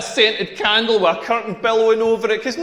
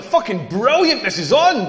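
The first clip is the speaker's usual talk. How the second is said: excited outburst; 2 semitones higher than usual. Retold or imitated. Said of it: "wished I'd said it a little bit quieter".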